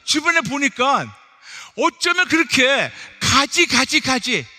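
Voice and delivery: loud, high exasperated pulpit delivery; exasperated preaching rant. Acted. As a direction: pile up the grievances with full preaching force. Preaches a mounting list of grievances.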